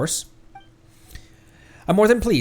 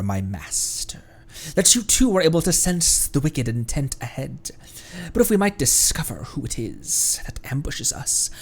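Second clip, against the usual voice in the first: hushed genie voice. Acted.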